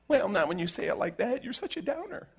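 high, pouting mock complaint with a laugh; mock offended listener.

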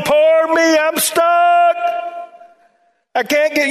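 high, whiny mock moaning; self-pitying moan. Pastor mocking a stuck churchgoer's complaining, whiny mock moan. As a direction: ham up a sorry-for-yourself whimper. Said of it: "You're just moaning".

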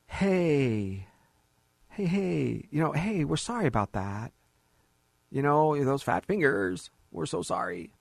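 mock-sheepish letter of apology, drawn out in places; facetious apology. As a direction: play an office breaking bad news with fake regret. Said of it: "you know I'm being facetious".

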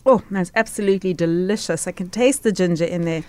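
talking while chewing food; mouth full. Real, not acted. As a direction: speak through a mouthful. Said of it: "so that I don't have to talk to the listeners with my mouth full".

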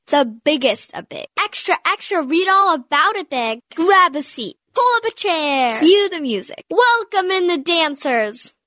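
ringmaster. Acted. Big announcement in showman style.

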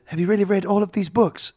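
lightly voiced impressed young heroine; retold heroine. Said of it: "And she goes".

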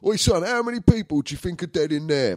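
high, cheeky dad voice; imitating his dad's cheeky question. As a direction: put on the old man's joking tone. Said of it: "'cause it was my old man".

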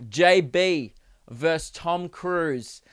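slow, drawn-out announcer read; a hint of a ring announcer; segment title. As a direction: present the headline like a fight card. Announces the new podcast topic.

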